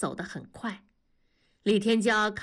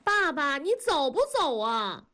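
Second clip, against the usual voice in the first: put-on high-pitched child yelling from upstairs; impatient shout; 7 semitones higher than usual. A narrator's reading. Daughter upstairs hurries dad, shouting impatiently. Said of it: "燕妮大喊".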